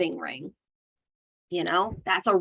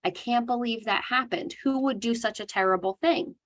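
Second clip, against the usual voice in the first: higher, gushing sympathy; sympathetic validation; 5 semitones higher than usual. Shown as a demonstration. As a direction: sound shocked and on their side. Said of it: "we're going to validate their experience".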